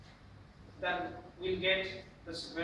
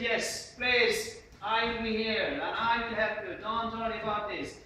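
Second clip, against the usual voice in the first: political leader; 6 dB louder than usual. Acted. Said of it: "you'll find the political leaders".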